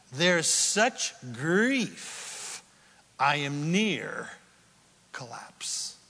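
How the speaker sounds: very slow, dying to a whisper; preacher acting out grief near collapse; fading to a collapse. Real, not acted. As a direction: let it sink into a breathless whisper. Enacting collapse.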